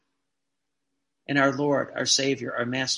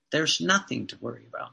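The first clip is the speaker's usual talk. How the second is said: "There's nothing to worry about" slower, lower and soft; slow reassurance; 3 semitones lower, 4 dB quieter than usual. Real, not acted. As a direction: let the comfort sink in.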